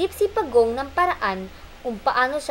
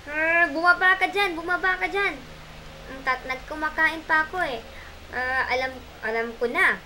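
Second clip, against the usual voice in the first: a cheeky, cross Matsing; angry monkey; 3 semitones higher than usual. Acted. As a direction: bark down at the turtle. Matsing shouts down at Pagong.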